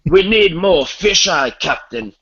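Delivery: a spaceship crewman yelling up to the captain; panicked crewman. Pretend. Playing crew in the script.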